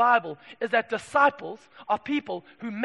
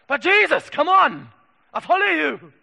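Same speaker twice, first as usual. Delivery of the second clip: high, loud pleading whine; mock indignant plea to God; whiny complaint; 5 semitones higher, 11 dB louder than usual. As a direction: complain to Jesus like a spoiled child. Whining believer when money dries.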